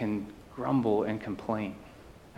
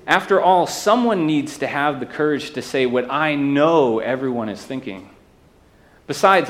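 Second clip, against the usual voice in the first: mock critic; 4 dB louder than usual.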